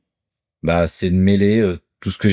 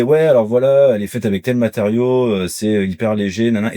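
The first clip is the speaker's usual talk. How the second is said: mildly raised pitch, rote sales patter; learned-by-heart recital; 3 semitones higher than usual. Shown as a demonstration. Seller listing a pan's features, reciting by heart. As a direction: reel it off like a memorized pitch. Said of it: "t'es en mode par cœur".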